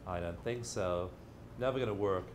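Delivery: low, soft demon muttering doubt; a sneering shoulder demon, quietly; doubting little demon. Retold or imitated. Speaker voicing the demon on his shoulder, low and soft. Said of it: "a little demon sitting there saying".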